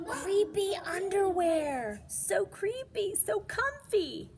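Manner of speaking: high, loud, gushing narrator voice; spooky delight. A narrator's reading. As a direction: swoon over the creepy underwear. Narrator gushes over creepy underwear.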